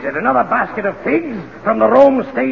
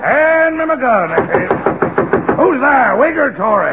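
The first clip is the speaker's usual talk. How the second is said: alarmed call; 5 semitones higher, 3 dB louder than usual. Acted. Revere hears knock, grabs gun.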